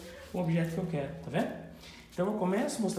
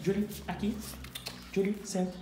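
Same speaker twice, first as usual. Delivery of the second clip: friendly exchange cue; 3 semitones higher than usual. Shown as a demonstration. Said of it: "eu posso fazer a troca".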